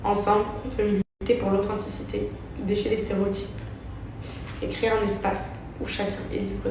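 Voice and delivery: measured, careful statement reading. Acted. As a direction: read it like a prepared apology. Reads her written statement.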